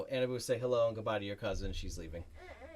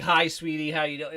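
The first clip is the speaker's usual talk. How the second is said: a syrupy hello to a loved one, a touch louder; sweet overfamiliar greeting; 4 semitones higher, 6 dB louder than usual. Retold or imitated. Retelling how she did not greet him, sugary and fond. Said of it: "And it wasn't like".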